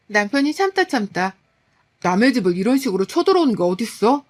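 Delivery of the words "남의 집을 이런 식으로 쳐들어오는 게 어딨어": a hint of a husband yelling at his mother; half-hearted shout of protest; mild retold shout. Husband shouting at his mother who barged in, mild shout. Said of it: "라며 소리를 쳤더니만요".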